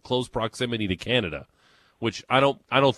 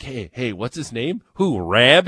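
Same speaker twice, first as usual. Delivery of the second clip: put-on tipsy Western New York girl, bursting louder on "Rab"; mock Western New York "Rob" with a flat A; Western New York accent; 5 dB louder, slower than usual. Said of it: "the more drinks we'd have".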